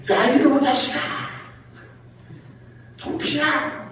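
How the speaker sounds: high-pitched exasperated yell at the puppy; fed-up owner shrieking the dog's name. Retold or imitated. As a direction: blow up at the dog, pitch way up. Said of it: "이게 다른 거예요".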